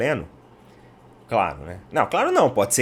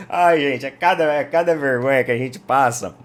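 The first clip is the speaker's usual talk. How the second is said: usual speaking voice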